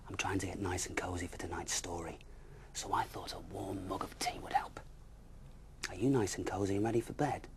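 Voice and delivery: hushed storyteller voice; bedtime whisper. A narrator's reading.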